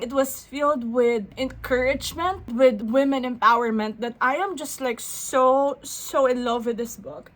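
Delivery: real tearful gushing, pitch creeping up; choking up with emotion. Real, not acted. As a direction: overcome while praising something you love. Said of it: "so crying so hard".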